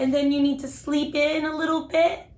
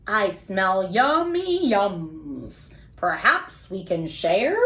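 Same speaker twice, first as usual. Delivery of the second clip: sniffing badger; 7 semitones lower, slower than usual. Badger sniffing, asks to share.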